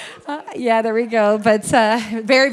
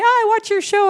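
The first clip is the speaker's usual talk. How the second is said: mock fan gushing; 12 semitones higher, 3 dB louder than usual. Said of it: "people that come up and say".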